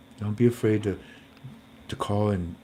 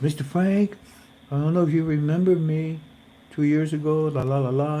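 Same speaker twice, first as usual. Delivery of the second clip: imitating the caller; 5 semitones higher than usual. Voices Katarina's call again.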